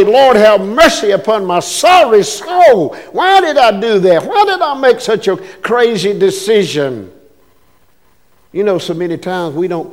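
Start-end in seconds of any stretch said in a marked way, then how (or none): 0.0-7.1 mildly raised, pleading lament; anguished regret. Acted. Sinner asking the Lord for mercy after a bad decision, regretful lament. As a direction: cry out in repentance, pitch a little up.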